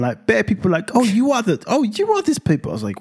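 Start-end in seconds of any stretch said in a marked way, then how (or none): 0.9-2.7 very high, breathless fan voice; hammed-up starstruck stranger; gushing churchgoer. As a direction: squeal it like meeting a celebrity. Mimicking excited churchgoers.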